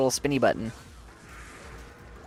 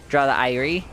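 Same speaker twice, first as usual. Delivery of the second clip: "irie" said the Jamaican way, ire ending in an ee sound; a light Jamaican twist on "irie"; Jamaican accent. Retold or imitated. Streamer voicing a chat joke in a light Jamaican accent. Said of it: "Jamaican accent".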